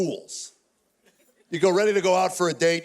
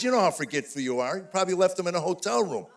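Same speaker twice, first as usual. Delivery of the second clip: mock wife; 3 dB quieter than usual. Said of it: "she gaslights me".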